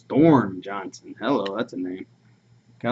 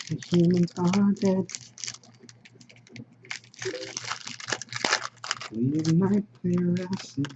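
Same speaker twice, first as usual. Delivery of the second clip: higher, slow robotic chant; 8 semitones higher, slower than usual. Retold or imitated. Imagining a Cyberman Dalek song, higher slow robot voice. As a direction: intone it like a cold machine. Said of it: "Cyberman Dalek duo".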